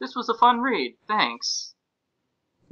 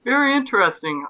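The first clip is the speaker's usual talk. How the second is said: mock surprised; 9 semitones higher, 3 dB louder than usual. Mock reaction to review.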